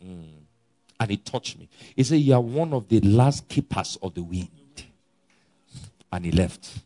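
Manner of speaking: quiet, intimate recounting of a vision; hushed testimony. Real, not acted. Preacher softly telling the congregation of his vision, quiet.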